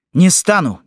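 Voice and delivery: put-on high, insistent boyish refusal; high-pitched stubborn little boy. A narrator's reading. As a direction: dig in like a defiant child. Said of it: "твердил мальчик".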